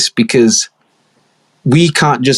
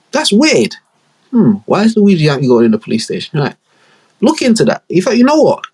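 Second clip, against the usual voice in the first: much higher, squeaky mock voice; mock high-pitched goon; 6 semitones higher than usual. Gang member spotting the auntie, high squeaky mock voice.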